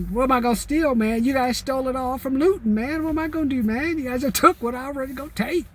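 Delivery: playful aggrieved whine at looters; mock exasperation.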